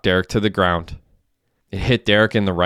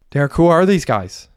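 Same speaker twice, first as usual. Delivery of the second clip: high, urgent demand to know; alarmed question; 9 semitones higher, 3 dB louder than usual. A narrator's reading. Mandy to Derek at gunpoint, alarmed and high. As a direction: ask it in rising alarm.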